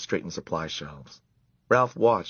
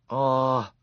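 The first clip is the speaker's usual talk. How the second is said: coaxing; 4 semitones higher, much slower than usual. A narrator's reading. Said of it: "coaxed Ralph".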